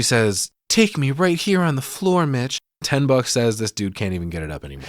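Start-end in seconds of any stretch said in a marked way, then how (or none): 0.7-2.6 hammed-up high, sultry plea; breathy seductive voice. Tammy begging Mitch in the casino, a high, hammed-up sultry voice. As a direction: camp it up like a vamp in heat. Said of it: "this voice she goes into, I fucking hate it".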